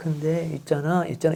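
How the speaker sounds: soft, quiet, small little voice. Demonstrating a small sound versus a big one: quiet, small voice. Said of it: "이렇게 얘기하는 소리가 작은 소리죠".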